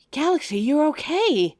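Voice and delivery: loud, high burst of relief; joyful loud relief; relieved cry. Acted. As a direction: call out overjoyed. Relieved to find partner alive.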